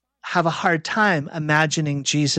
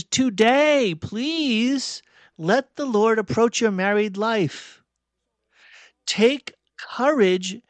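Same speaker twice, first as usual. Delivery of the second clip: higher-pitched, deliberate sermon exhortation; raised-pitch closing appeal from a preacher; earnest preaching appeal; 5 semitones higher than usual. Real, not acted. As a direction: plead with the congregation, drawing out key words.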